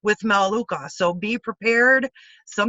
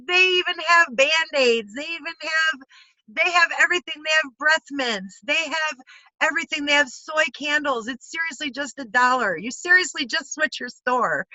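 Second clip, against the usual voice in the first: much higher, bubbly friend gushing over a one-dollar store; imitating a thrilled friend, pitched way up; excited April Tucker; 6 semitones higher than usual. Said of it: "She was so excited".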